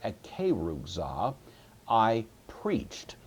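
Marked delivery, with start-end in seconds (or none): 0.0-1.3 slow "Ekerugza", stressed on KE, the second syllable; accent on antepenult. Shown as a demonstration. Teacher showing where the accent goes, stress on antepenult. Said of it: "put the accent right here".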